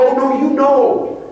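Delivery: slow, knowing reply; knowing tease. Retold or imitated. A coach claims ignorance, he answers slowly and knowingly. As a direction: draw it out like you've caught them out.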